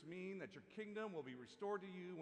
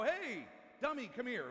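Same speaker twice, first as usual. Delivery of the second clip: higher, drawn-out mock call; rude summons; 4 semitones higher, slower than usual. Shown as a demonstration. How not to confront an enemy, rude. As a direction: imitate someone rudely calling a person over. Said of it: "We shouldn't come out and go".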